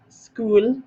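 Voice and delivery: "school" with a long oo, rising; own pronunciation. Shown as a demonstration. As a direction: stretch "school" and lift the end. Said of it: "I say school".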